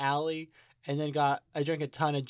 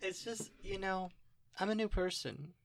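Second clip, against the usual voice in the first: put-on New Orleans accent; 4 semitones higher, 3 dB quieter than usual. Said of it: "I'm from New Orleans now".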